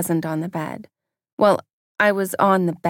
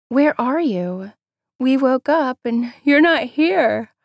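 higher, slow anxious friend voice; worried friend; 6 semitones higher, 6 dB louder, slower than usual. A narrator's reading. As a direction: ask urgently, sleepy but worried. Friend on phone after waking.

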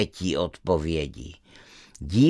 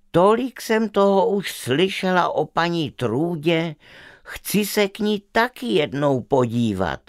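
put-on lightly raised, eager little girl; a curious girl pleading to visit; girl's voice; 5 semitones higher than usual. Stubborn girl tells her parents she is curious, lightly girlish.

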